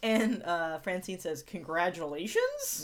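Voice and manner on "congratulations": slow, drawn-out, unsure congratulations; half-hearted, questioning retold congratulations; shrugging congratulations. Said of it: "Shrug emoji".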